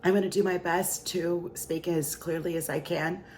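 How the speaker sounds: barely-there raspy voice; raspy whisper. Real, not acted. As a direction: speak through a lost voice. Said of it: "but I have no voice".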